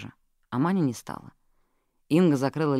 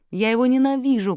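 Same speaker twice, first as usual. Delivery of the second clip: high, loud hateful cry; secretary yelling her hatred of the dead man; shouting; 10 semitones higher, 6 dB louder than usual. A narrator's reading. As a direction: scream out the hatred. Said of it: "крикнула секретарша".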